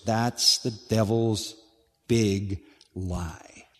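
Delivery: hushed whisper on big lie. Acted. Preacher warning the congregation of the devil's lie, whispered.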